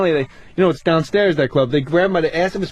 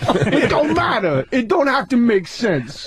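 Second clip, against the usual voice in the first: Tracy voice; 5 semitones higher, slower than usual. Retold or imitated. Continuing Tracy voice.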